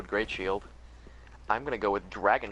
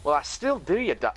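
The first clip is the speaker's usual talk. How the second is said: put-on Scottish accent; 3 semitones higher than usual. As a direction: start Aussie, slide into Scottish. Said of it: "that went Scottish real fast".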